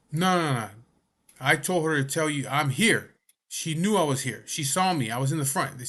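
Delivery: mock indignant protest; angry insistence. A patient arguing with the nurse, imitated angry.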